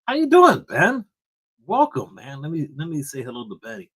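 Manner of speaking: high, loud hype-man welcome; hyped greeting. Pretend. Vlogger welcoming channel member Benny, high hype greeting. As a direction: greet him like a big-voiced host. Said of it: "every time I say".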